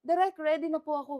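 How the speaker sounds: mock-tearful voice; put-on teary plea to the director; imitated crying. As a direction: say it as a weepy actress, half-hearted. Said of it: "tas iyakan".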